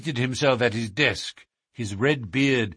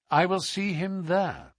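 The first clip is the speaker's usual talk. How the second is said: higher-pitched, immovable reply; cold, inexorable; 9 semitones higher than usual. A narrator's reading. Holmes answers the secretary's last excuse, inexorable. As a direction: refuse to budge, coldly, voice raised in pitch. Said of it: "Holmes's cold and inexorable manner".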